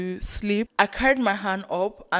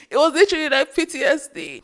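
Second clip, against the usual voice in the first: high, loud, laughing through the words; 7 semitones higher, 5 dB louder, faster than usual. Real, not acted. Recalling failed attempts to find a vein, laughing.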